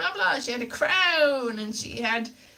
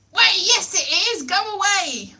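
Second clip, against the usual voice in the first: mock dismissal; 5 semitones higher than usual. Audition staff arguing over her hair, mock dismissive. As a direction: play them shooing you off.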